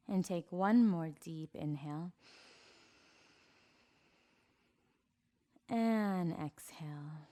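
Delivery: unhurried meditation instructor, words stretched on the breath cues; guided meditation. Acted. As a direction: guide them calmly into each breath. Leads breathing and posture exercise.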